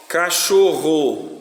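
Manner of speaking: "Cachorro" drawn out slowly in syllables; slow, teacherly "Cachorro". Shown as a demonstration. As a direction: dictate "Cachorro" slowly, each syllable held. Teacher dictating a word for syllable division.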